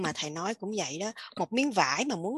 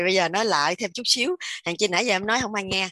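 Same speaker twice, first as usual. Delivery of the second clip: louder, pushed out to be heard; speaking louder; 6 dB louder than usual. Real, not acted. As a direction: project it so everyone hears. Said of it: "nói lớn lên coi".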